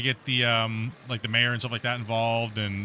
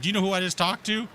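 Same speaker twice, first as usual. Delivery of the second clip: raised-pitch mimicry of an indignant official; indignant officer; 7 semitones higher than usual. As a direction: play her pulling rank, voice lifted. Acted boast by the border officer.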